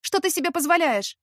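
high indignant demand; outraged protest. Acted. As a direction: push back hard in outrage. Heroine grabbed, outraged.

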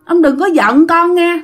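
put-on high, drawn-out pleading child's voice; whiny little child. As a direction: play a small ghost child coaxing grandpa. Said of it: "nói theo cái kiểu nhõng nhẽo". (giọng con nít nhõng nhẽo, cao và kéo dài)

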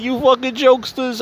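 high-pitched, hammed-up Italian guy; super Italian. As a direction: stretch it out like an excitable Italian greeting his pals. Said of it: "he's like, super Italian".

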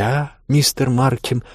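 high, slow, teasing; mocking exclamation. A narrator's reading. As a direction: needle him with a sly high voice. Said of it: "воскликнула она с ехидным смешком". (ехидно, насмешливо)

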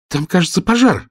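sudden alarm at the smoke; alarmed exclamation. A narrator's reading. Girl crying out to her friend at billowing smoke, alarmed. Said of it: "воскликнула Оля".

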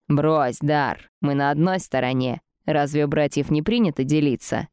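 caustic. Acted. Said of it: "Прозвучало до отвращения едко".

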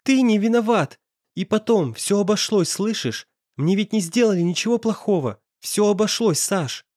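put-on tearful girl insisting; a touch of tears. A narrator's reading. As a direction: insist while holding back tears. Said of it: "глотая слёзы".

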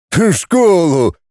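plain reading voice

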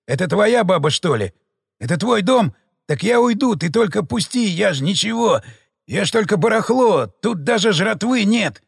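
high, frantic begging; panicked pleading. Acted. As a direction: beg fast, terrified. Terrified marauder begging for life.

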